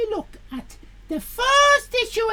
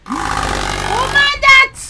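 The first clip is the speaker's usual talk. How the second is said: startled; 8 semitones higher, 10 dB louder than usual. Real, not acted. Reacting to fan noise.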